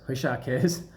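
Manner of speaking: Richard said ree-SHAR, no D; French Richard in a joke. Shown as a demonstration. Teasing the brand founder, French pronunciation. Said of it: "I don't think Richard cares".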